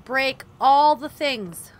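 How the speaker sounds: slow, loud, seething; slow loud angry grumble; pissed off. Real, not acted. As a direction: growl it out, wanting to smash. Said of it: "I'm getting pissed".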